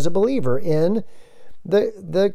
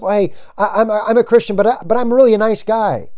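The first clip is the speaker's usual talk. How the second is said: mock defensive Christian; 5 semitones higher than usual. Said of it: "the witness being defensive".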